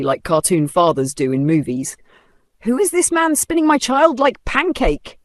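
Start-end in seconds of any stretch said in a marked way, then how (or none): 2.6-5.2 high, disbelieving aside to himself; indignant muttering. Acted. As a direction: grumble it in shocked disbelief. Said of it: "Raphael muttered to himself".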